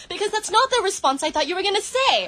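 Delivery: acted indignation. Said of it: "start off this little acting thing".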